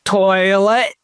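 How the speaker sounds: Toilet said with a Scottish accent. Shown as a demonstration. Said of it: "I like to say it in a Scottish accent".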